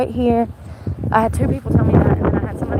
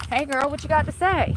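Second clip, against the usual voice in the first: confrontational call-out; 5 semitones higher than usual. Retold or imitated. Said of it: "I'm gonna say something".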